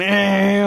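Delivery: drawn-out high revving noise; imitated engine whine. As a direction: mimic a car tearing off with your voice. Imitating car speeding away.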